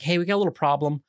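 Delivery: halting, delicate bad-news call to the boss; careful wording. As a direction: break it gently, pausing before the awkward word. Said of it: "I chose my words very carefully".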